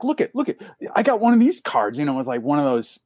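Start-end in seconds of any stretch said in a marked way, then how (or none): 0.0-2.0 high, insistent rock star impression; mimicked eager, pitched-up protest; a rock musician. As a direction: plead your case in a raised voice. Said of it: "he's doing the Grohl thing".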